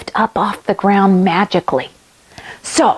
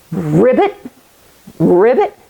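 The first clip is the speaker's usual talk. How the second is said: lightly voiced ribbit; frog croak; 3 semitones lower than usual. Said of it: "let's become a frog".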